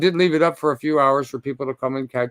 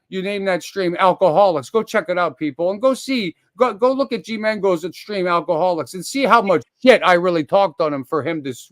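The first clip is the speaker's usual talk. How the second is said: usual speaking voice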